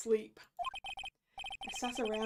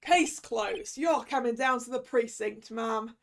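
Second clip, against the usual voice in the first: noir detective; 5 dB louder than usual. Acted. Detective arrests her.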